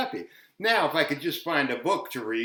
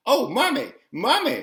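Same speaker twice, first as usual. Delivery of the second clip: put-on scared child crying out; 9 semitones higher, 4 dB louder than usual. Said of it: "they cried out".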